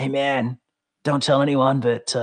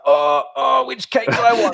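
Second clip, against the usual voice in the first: laughing high squeal of indecision; giggly can't-decide voice; mock indecision; 10 semitones higher, 3 dB louder than usual. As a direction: torn between two cakes, laughing it out. Mock dithering over two cakes.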